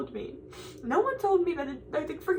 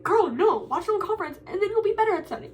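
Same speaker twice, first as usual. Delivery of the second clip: louder, brisk sassy scolding; God's sassy advice; 3 semitones higher, 4 dB louder, faster than usual. Retold or imitated. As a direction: voice a lightly sassy almighty, telling her off. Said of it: "I think God was probably like".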